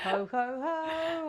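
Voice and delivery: belly-laugh it like Santa; jolly ho ho ho. Pretend. Christmas intro, Santa laugh.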